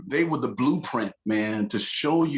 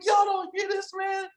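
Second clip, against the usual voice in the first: retold exclamation. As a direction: yell it up high at your friends. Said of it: "I was like".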